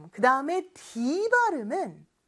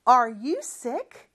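slow repeat-after-me; much slower than usual. Shown as a demonstration. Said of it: "큰 목소리로 한 번 더".

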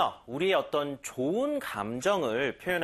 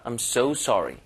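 "so" leaned on a little, sorry light; stress on so; 3 semitones lower, much slower than usual. Shown as a demonstration. Teacher showing learners the stress on so. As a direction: lean gently into "so". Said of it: "so에 살짝 강세 주는 게 낫겠죠".

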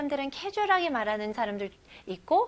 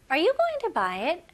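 higher and louder question; raised voice, like asking from far away; 5 semitones higher, slower than usual. Shown as a demonstration. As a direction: call the question out across the room. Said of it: "이 문장 큰 목소리로 해볼게요".

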